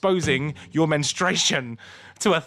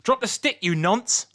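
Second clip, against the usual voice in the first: imitated shout; 8 semitones higher than usual. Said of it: "a lady just went".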